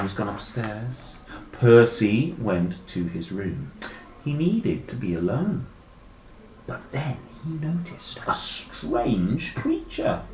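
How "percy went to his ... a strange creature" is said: slow, suspenseful read-aloud; story narration. A narrator's reading. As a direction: build slowly towards a discovery. Reads story aloud to children.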